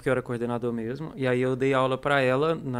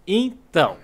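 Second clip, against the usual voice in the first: "Então" loud and high, then left hanging; exaggerated hedging "Então"; hesitant stalling pause; 6 semitones higher, 7 dB louder, much slower than usual. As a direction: stall on a drawn-out "Então" before answering. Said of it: "quando a pessoa faz essa pausa".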